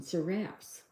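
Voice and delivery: "Seraps" with a short A, like raps; "Seraps" ending to rhyme with caps; corrected pronunciation. Shown as a demonstration. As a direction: repeat "Seraps" carefully in two syllables. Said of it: "is the pronunciation".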